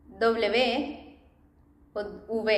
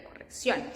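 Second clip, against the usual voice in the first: softly said corrección, stress on "ción"; quiet corrección with the final syllable stressed; accented final syllable; 7 dB quieter than usual. Shown as a demonstration. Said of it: "we put that accent there".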